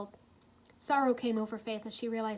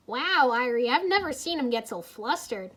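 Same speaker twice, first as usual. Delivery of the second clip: snickering; 6 dB louder than usual. A narrator's reading. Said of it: "Jay snickered".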